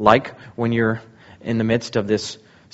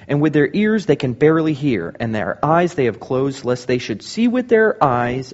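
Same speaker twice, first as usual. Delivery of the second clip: raised, emphatic scripture declamation; preaching prophecy; 2 semitones higher than usual. Acted. Pastor proclaiming Isaiah's prophecy to the church, emphatic. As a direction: thunder out the prophecy.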